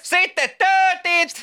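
high, slow joking order; mock tanner shout.

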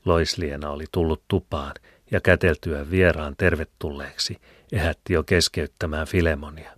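plain reading voice

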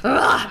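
loud playful roar; mock dragon-queen roar. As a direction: burst out like a make-believe dragon queen. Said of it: "så kommer jag så här att". (lekfullt drakdrottningsvrål)

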